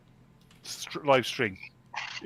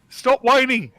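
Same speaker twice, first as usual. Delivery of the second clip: mocking whiny voice; 9 semitones higher, 8 dB louder, slower than usual. Mocking friend's whining.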